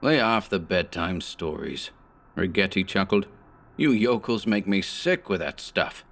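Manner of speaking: a hint of a frightened heavy's accent, rising; lightly voiced nervous thug pleading; mild fearful broken-English plea; scared henchman in broken English.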